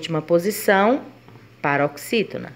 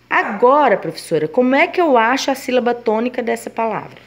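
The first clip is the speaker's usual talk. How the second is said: higher, lightly acted pupil voice; student's question; 4 semitones higher, 3 dB louder than usual. Pupil asks teacher how to find the syllable, lightly voiced student.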